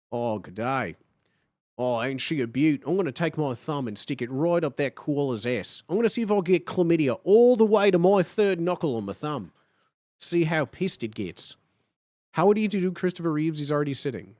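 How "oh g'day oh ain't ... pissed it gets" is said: put-on Australian accent. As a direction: play it like a cheeky Aussie wildlife guy. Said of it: "Steve Irwin?".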